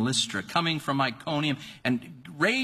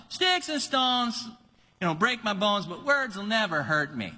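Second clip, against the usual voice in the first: lightly voiced mom reciting; 6 semitones higher than usual. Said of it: "you tell 'em".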